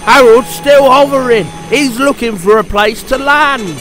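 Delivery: high, loud report; excited lookout. A narrator's reading. The fireman spots Harold still hovering, excited. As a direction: shout down gleefully with the news.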